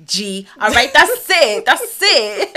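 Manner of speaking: hammed-up villain taunt; laughing villain threat. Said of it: "he was like".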